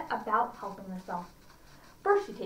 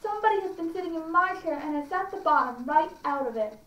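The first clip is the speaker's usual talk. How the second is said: lightly voiced small bear, pitched up; a hint of a little bear lamenting; 4 semitones higher than usual. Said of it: "And our little bear".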